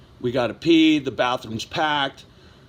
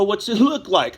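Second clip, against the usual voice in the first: higher-pitched smartass comeback; drunk smartass; 5 semitones higher than usual. Retold or imitated. Drunk man talking back to cops, smartass. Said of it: "I'm being a smartass".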